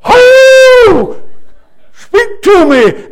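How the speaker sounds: high, loud whoop and drawn-out call; coon hunter's holler. Retold or imitated. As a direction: holler to the hounds on a hunt. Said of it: "coon hunting ... chasing your dogs and you go".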